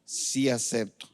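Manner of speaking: lightly acted groom, low and slow; groom saying vows. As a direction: answer a mock wedding vow, drawn out. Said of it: "Yo me los imagino casando".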